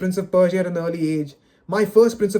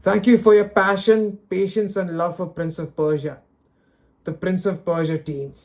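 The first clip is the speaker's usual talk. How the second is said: reading the corporate statement with a hint of scorn; mock official read. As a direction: recite the sign-off like a hollow press release. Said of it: "All right, last line. Let's go".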